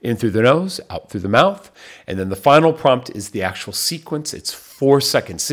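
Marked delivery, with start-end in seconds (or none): 0.0-1.7 emphatic restatement. Shown as a demonstration. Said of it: "So prompt number two".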